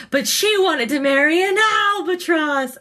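a hint of a heartbroken bird; imitating a cartoon bird. Group therapy bird complaining about his wife, mock-sad. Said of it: "he says".

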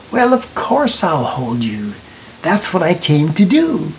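gentle, understated reassurance; full of warmth. A narrator's reading. Girl agrees to hold frightened Johnny, mildly warm. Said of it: "Her voice was full of warmth".

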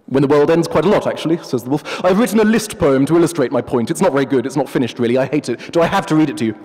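a hint of a haughty professor; pompous wolf. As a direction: play the wolf as a self-important academic. The wolf talks of his poem.

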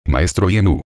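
an urgent, hurried call to the master. A narrator's reading. Isako urgently calls out to Master Iemu, hurried. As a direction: blurt the name out in a rush. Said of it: "dijo apresuradamente".

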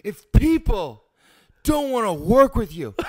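theatrical monologue voice. Pretend. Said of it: "Say the first line".

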